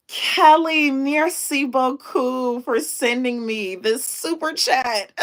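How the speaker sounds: thanking a viewer, still squealing with joy; excited thanks. Real, not acted. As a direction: gush your thanks to Kelly. Thanking Kelly for the gift.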